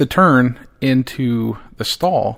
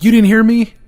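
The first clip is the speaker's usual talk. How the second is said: exasperated shout; 11 semitones higher, 7 dB louder than usual. Retold or imitated. Dad confronting daughter.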